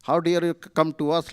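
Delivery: mock outrage at the intruders; hint of an angry shout; furious. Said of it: "very furious".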